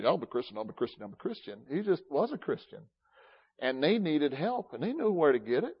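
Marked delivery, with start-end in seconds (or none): 0.1-1.6 mock self-announcing. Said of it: "didn't go around and say".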